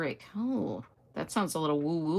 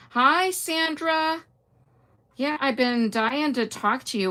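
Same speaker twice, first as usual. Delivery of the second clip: high, slow, drawn-out hello; excited greeting; 7 semitones higher than usual. Real, not acted. Greeting viewer Sandra, high and drawn out. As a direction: sing out her name gladly.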